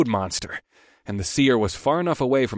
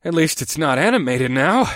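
snorting quip; 5 semitones higher, 4 dB louder than usual. A narrator's reading. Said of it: "I snorted".

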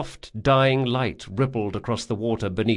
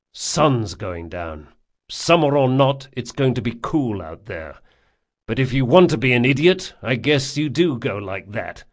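dry gruff friend; 2 semitones higher, 3 dB louder than usual. Acted. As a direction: shrug him off bluntly. Jean answers dryly.

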